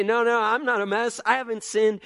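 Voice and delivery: mock-innocent child insisting; defiant toddler denial. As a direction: pout it out like a caught toddler. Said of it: "like that toddler with the paint everywhere".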